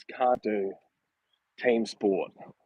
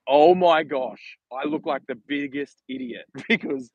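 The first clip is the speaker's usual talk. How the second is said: amused, exclaiming retold outburst; laughing realization; 3 semitones higher than usual. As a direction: imitate dad cracking up at himself. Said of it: "then he lost it laughing".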